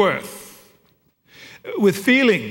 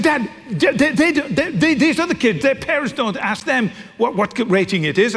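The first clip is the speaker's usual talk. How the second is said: put-on much higher, stammering teen protest; flustered teenage daughter; 6 semitones higher than usual. Daughter stammers that other parents don't ask this, much higher. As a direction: sputter out the objection.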